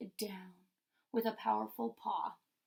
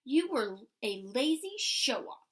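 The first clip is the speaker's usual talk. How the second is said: squawking vulture; 5 dB louder than usual. Acted. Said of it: "squawked the vulture".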